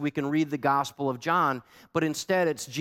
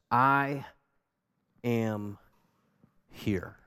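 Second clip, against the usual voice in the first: slow fading whisper; 2 semitones lower, much slower than usual. Acted. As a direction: let "I am here" die away to a whisper. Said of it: "Those two words are underlined".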